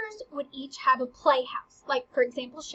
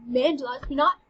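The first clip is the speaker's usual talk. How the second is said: mock sulk with louder bursts; pouting; 5 dB louder than usual. Teacher playing Hamlet before the actors arrive, pouting. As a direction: pout it out, dismissing everyone. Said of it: "like, all pouting".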